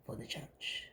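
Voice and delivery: breathy whispered ending; whispered trail-off. Real, not acted. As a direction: let it fade into a whisper.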